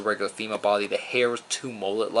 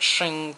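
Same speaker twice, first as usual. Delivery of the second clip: quick metallic shing of blades; 6 semitones higher than usual. Retold or imitated. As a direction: voice the blades snapping out. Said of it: "they shoot out like theirs".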